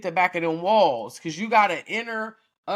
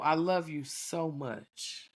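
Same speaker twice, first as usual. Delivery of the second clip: tender; 6 dB quieter, slower than usual. Shown as a demonstration. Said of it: "for example".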